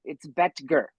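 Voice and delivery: Betger said as BET-gur, no O sound; silent O pronunciation. Shown as a demonstration. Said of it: "So the O is silent".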